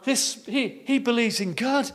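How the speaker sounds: a touch of laughing orphans; mocking children. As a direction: scoff like cheeky orphans. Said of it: "And they're laughing".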